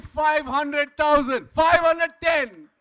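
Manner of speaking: loud auction call, rising at the end; excited shouted bid. Real, not acted. Auctioneer announcing bids crossing five hundred thousand, shouted. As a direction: sell the milestone to the room.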